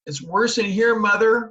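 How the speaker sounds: put-on girl calls out to mother from the kitchen; calling out. A narrator's reading. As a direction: call to mother in the next room. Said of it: "she called".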